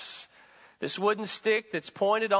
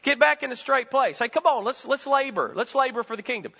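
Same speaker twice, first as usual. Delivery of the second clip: a hint of God prodding, higher and louder; God's voice; 8 semitones higher, 4 dB louder than usual. God nudging the believer back, lightly voiced and urgent. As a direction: call them back into line. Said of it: "and he says".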